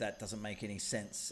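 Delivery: plain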